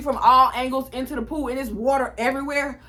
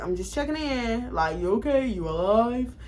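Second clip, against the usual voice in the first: worried mom. Retold or imitated. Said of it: "she start getting worried and be like".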